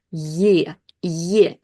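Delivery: "ye" with a clear y glide; isolated "ye", y fully sounded; default vowel form. Shown as a demonstration. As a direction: say "ye" alone, starting on y. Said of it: "in its default form".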